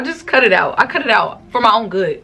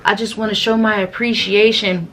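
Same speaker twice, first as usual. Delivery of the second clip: fake casual. Fake-casual conversation starter.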